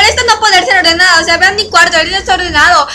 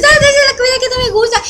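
higher, fast mocking mom voice; imitating mom; 6 semitones higher, faster than usual. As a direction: mimic mom's nagging lightly, quick and high. Mamá imitada en discusión.

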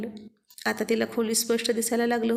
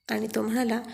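plain reading voice

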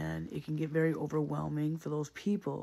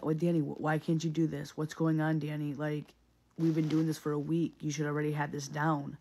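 impatient manager; 4 dB louder than usual. Retold or imitated. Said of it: "I've had managers like that".

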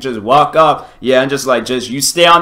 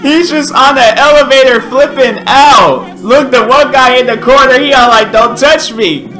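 higher and louder, still laughing; laughing while talking; 10 semitones higher, 5 dB louder than usual. Real, not acted. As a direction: talk while still cracking up. Talking right after laughing fit.

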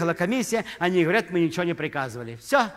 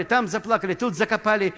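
ordinary delivery

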